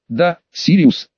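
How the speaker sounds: slow, pretend disappointment; mock sorrow. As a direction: sigh it out with feigned regret. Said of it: "с притворным огорчением". (с притворным огорчением)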